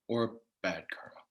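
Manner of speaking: or bad karma in a whisper; whispered aside. A whispered aside to the audience about bad karma. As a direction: drop to a sly whisper. Playful contrast good and bad.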